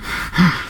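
a sharp, unvoiced gasp for breath; short mock gasp for breath; gasping for air. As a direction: suck in air as if choking. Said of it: "they're gonna just gasp for".

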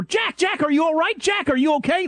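urgent, high-pitched calling out; alarmed co-worker. Retold or imitated. Co-worker running over to check on Jack, alarmed. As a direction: imitate a worried workmate checking someone is okay.

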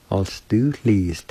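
"I'll stu, please" blended as one word; careful teacher's repeat of "I'll stu, please"; whole-word pronunciation demo. Shown as a demonstration. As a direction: model "I'll stu, please" without breaks. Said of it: "I'll pronounce it one more time".

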